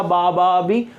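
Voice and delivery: बा, बा, then बी with an ee vowel; changed vowel quality. Shown as a demonstration. Teacher showing a differing neighbouring vowel, changed vowel quality. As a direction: switch the last vowel from aa to ee in बी. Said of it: "उसकी quality अलग है".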